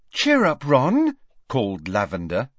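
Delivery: put-on high, bright girlish cheer. A narrator's reading. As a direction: call out loud and high with encouragement. Encouraging a nervous teammate, girl's voice.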